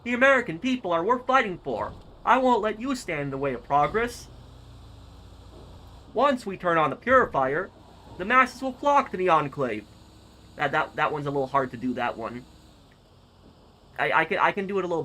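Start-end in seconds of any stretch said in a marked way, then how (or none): 0.0-9.9 high, loud Louisiana-accented oratory; Colonel Autumn's Louisiana accent. Shown as a demonstration. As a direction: declaim it like a Louisiana-accented colonel rallying his people. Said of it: "let me try to do this accent".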